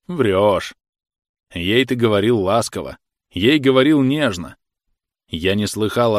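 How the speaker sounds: loud, heated rebuke; scolding comrade. Acted. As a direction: lay into him, full of scorn. Khokhol's long scolding speech.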